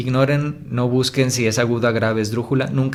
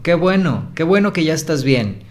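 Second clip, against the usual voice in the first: higher, cheerful exclamation; exclamación alegre; 5 semitones higher, 3 dB louder than usual. Shown as a demonstration. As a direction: exclaim it, glad and encouraging. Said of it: "que transmite ánimo, alegría". (exclamando con alegría y ánimo)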